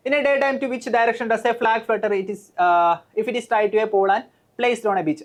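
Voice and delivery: slow, deliberate reading of the question; reading a question aloud. Shown as a demonstration. Teacher reads the exam question to students, slow and deliberate. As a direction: spell out each word of the English question slowly. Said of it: "reads the exam question".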